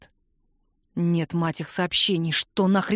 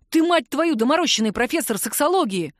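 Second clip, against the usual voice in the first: barking; 6 semitones higher than usual. Acted. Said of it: "рявкнул Макс".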